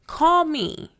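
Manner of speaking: hammed-up, insistent flirting; playfully flirty. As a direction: playfully call out to a crush. Playful flirting, repeated louder.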